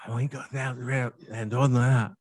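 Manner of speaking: imitated child's garbled secret; whispered secret. Grandson cupping grandfather's ear, mock garbled whispering. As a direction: mumble it like a small boy into an ear. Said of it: "he'll cup my ear and he'll go".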